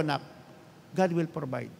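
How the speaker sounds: softly reassuring his son, God will provide; hushed calm comfort to a child; gentle reassurance. Retold or imitated. Father telling eldest son God will provide, softly. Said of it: "sabi ko".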